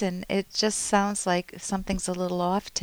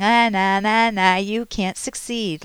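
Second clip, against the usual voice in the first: a jeering bully's taunt, a bit louder; 3 dB louder than usual. Retold or imitated. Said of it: "like a bully".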